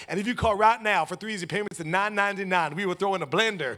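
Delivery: hammed-up late-night salesman; infomercial pitch. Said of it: "sounds like one of these infomercials".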